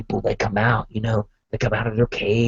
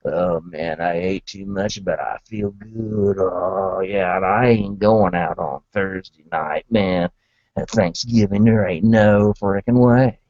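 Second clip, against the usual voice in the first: too full to go anywhere, content; stuffed Groovy Santa; 6 semitones lower than usual. Retold or imitated. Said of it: "that's when Groovy Santa's like".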